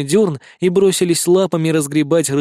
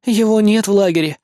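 usual speaking voice

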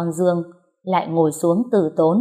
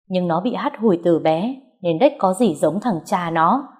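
scornful. Acted. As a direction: sneer at her bloodline. Mother-in-law scorning the girl. (mẹ chồng khinh bỉ con Dương, chậm rãi)

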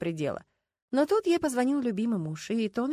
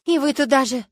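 high, loud indignant cry; 6 semitones higher, 11 dB louder than usual. A narrator's reading. Апельсинчик, offended by the inspector, indignant and loud. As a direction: bristle at the insult. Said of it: "возмутилась Апельсинчик".

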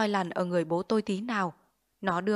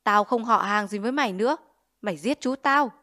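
feigned anger; 4 dB louder than usual. Acted. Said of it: "làm mặt giận trỏ vào mẹ tôi".

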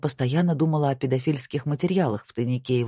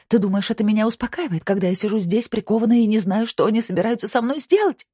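high, raised-voice furious rush of reproach; shouting at him; 8 semitones higher, 3 dB louder than usual. A narrator's reading. Handcuffed wife rebukes her husband, shouting. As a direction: let the outrage climb in pitch. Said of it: "закричала она на него".

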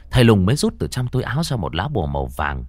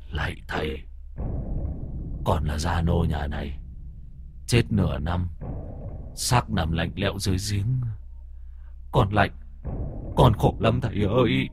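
pleading ghost; 5 dB quieter than usual. Acted.

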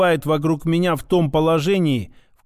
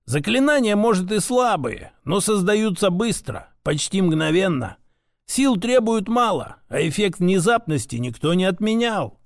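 lightly voiced grandfather, encouraging; 2 semitones higher than usual. Grandfather consoles grandson about weak spells, lightly voiced encouragement. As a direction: reassure lightly in a grandfather's character.

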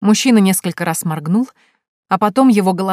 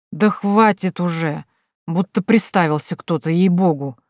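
slow tipsy slurring grumble; slurred grumble. Acted. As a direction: mumble it, tongue tripping over words. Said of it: "проворчала Минадора заплетающимся языком". (заплетающимся языком, ворчливо)

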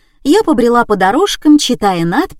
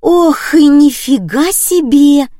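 much higher, louder, slowed gasp of wonder; childlike exclamation; 7 semitones higher, 6 dB louder, slower than usual. A narrator's reading. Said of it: "по-детски воскликнула Томочка".

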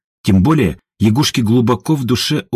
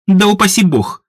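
laughing retort; 10 semitones higher than usual. A narrator's reading. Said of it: "хохотнула Едвига".

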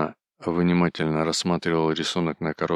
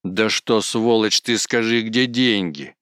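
heated demand; 4 semitones higher, 5 dB louder, slower than usual. A narrator's reading. Ефрем in quarrel.

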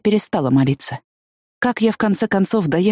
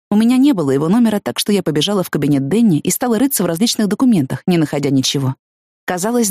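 usual speaking voice

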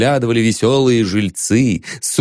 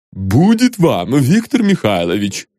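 call from window. A narrator's reading. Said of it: "крикнула из окна".

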